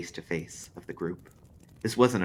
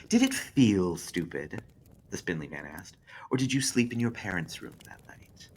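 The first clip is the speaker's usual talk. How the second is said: spindly man mocking Drake, hushed; spindly man taunting; 2 semitones higher than usual.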